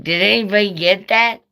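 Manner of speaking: asking the live stream viewers in disbelief; incredulous asking. Retold or imitated. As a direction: urge the viewers to confirm it. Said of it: "I was like".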